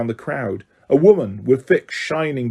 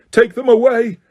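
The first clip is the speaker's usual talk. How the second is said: much higher, louder furious roar; 10 semitones higher, 5 dB louder than usual. A narrator's reading. Crouch to the Dementors, furious roar. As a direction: spit it out with rage. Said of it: "Crouch roared at the Dementors".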